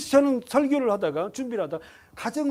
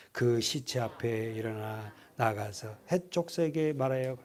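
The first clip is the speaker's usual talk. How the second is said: lower, measured reading of the passage; solemn scripture reading; 9 semitones lower, 6 dB quieter than usual. Acted. Preacher reading Genesis to the congregation, solemn and low.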